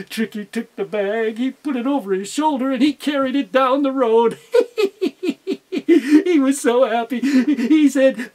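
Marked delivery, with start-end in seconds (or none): 4.4-5.7 high gleeful laugh; gleeful fox cackle. Acted. Fox delighted with his prize, high cackle.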